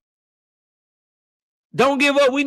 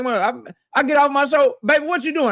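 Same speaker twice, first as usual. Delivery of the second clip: wife's voice, higher; imitating his wife; 4 semitones higher, faster than usual. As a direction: lightly act the wife calling him. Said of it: "Miss K O be listening like".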